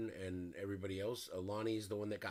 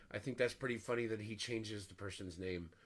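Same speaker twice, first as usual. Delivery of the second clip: ordinary talk, nothing marked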